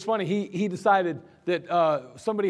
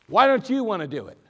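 loud, higher demanding question; mad sergeant; 4 semitones higher, 7 dB louder than usual. Retold or imitated. Angry sergeant demanding why a soldier won't volunteer. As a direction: jab the question at him. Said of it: "He's getting mad".

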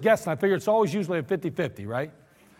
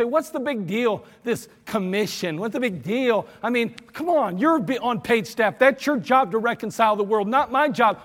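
dismissive objector; 2 semitones higher than usual. Retold or imitated. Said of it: "You say".

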